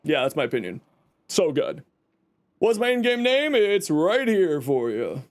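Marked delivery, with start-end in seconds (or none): 2.6-5.2 hoarse lost voice; voice gone. Real, not acted. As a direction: talk with a voice gone from screaming. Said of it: "my voice is gone because I was screaming".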